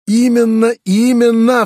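high, loud cry of rapture; delighted outcry. A narrator's reading. Uncle to nephew, thrilled by his idea, loud delighted cry. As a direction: burst out in sheer delight. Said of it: "вскричал дядя в восторге".

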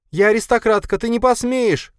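high, loud, frantic cry; desperate scream. A narrator's reading. Marina fighting off her attacker, screaming high and loud. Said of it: "кричала Марина".

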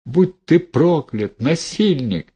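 high, drawn-out curse; outraged curse. A narrator's reading. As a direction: fling the curse high and slow. Heroine curses the prophet.

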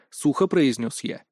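usual speaking voice

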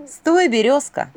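медленно, громко и высоко; властно протяни; голос двойника. A narrator's reading. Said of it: "послышался ей собственный голос". (двойник окликает, медленно и громко)

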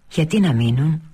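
puzzled repeat. A narrator's reading. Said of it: "την ξαναρώτησε η μητέρα της".

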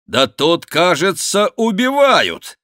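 rising to a high, drawn-out shout; loud outcry. Acted. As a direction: build up to a high yell. Второй голос кричит, вбегая. (громкий крик, всё выше)

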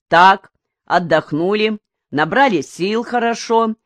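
words stretched out slowly; slow drawling foreman. A narrator's reading. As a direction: drawl it, unhurried and in charge. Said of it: "растягивая слова, негромко говорил Донда".

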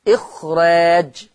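وإخراج drawn out slowly, ikh-raaj with a thin r; slow demo of وإخراج with a light r; light raa. Shown as a demonstration. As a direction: stretch the long aa of وإخراج. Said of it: "الراء بتاعتها مرققة".

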